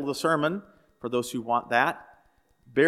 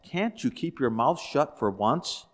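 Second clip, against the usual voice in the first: slow, understated growl of annoyance; lightly acted husband's growl; mild growl; slower than usual. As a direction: growl it slowly, holding back. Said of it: "looks at his wife and growls".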